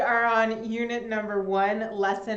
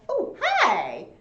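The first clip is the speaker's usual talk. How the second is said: high, louder surprised greeting; a bright startled oh hi; 8 semitones higher, 7 dB louder than usual. Retold or imitated. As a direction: greet someone who startled you. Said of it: "because I was a little bit surprised".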